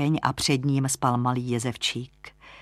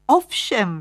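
sudden louder, higher exclamation; 6 semitones higher, 5 dB louder than usual. A narrator's reading. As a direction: exclaim it on a brief burst. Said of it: "vykřikla". (zvolání, výš a hlasitěji)

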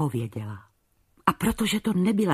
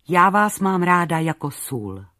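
calm, unhurried and plain, stress on vás; slow and simple; 2 semitones higher, 4 dB louder than usual. Acted. Youngest daughter answering her father the king, slow and plain. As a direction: say it slowly and sincerely, no flattery. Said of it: "řekla pomalu Maruška".

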